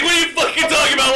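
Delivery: high goofy cartoon voice; a dopey cartoon dog. Imitating Goofy's reaction.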